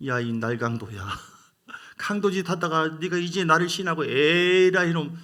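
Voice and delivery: a preacher mocking a scolding that never happened, hammed-up and loud at the end; mock scolding Jesus. 설교자가 예수님의 가상 꾸짖음을 흉내 내며, 과장된 호통. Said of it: "그렇게 하지 않았어요".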